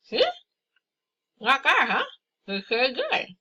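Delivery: talking with a pen between teeth. Real, not acted. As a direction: speak around a pen held in the mouth. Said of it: "with a pen in your mouth like this".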